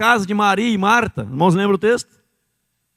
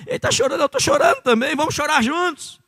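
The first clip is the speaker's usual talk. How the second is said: mocking copycat crier; 6 semitones higher, faster than usual. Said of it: "Como aquelas mulheres lá contratadas".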